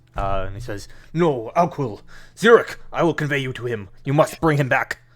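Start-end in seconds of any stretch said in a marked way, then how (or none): 1.1-4.9 loud, pitched-up shout. Voicing Harshnag calling out during a fight: Harshnag shouting. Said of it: "Harshnag just sort of shouts out".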